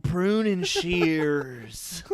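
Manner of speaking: hammed-up Southern Gothic voice; Southern accent. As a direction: play a backwoods Southern landscaper. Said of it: "Real Rejects Southern Gothic".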